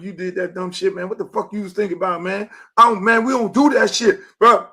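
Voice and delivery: mock father's tirade, finishing loud; imitating angry dad. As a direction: chew him out like a dad on the ride home. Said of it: "that's that ride home".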